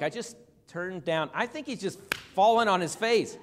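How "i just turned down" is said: softer, gently put retelling; gentle. Retold or imitated. Preacher voicing Daniel's gentle account of bowing down, gentle. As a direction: say it softly, as if meekly recounting. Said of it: "He says it so gently".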